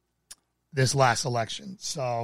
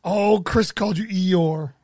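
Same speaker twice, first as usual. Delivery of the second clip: surprised; 4 dB louder, much slower than usual. Real, not acted. Surprised reaction to viewer comment.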